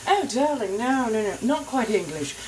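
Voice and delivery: high, loud, theatrical colonial American lilt; a grand old vampire's colonial American accent. Acted. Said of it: "accent happens to be American colonial".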